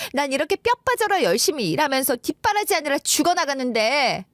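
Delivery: bitter, reproachful complaint; acted wife, resentful and exasperated; aggrieved wife. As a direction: accuse him as the one who always gets blamed.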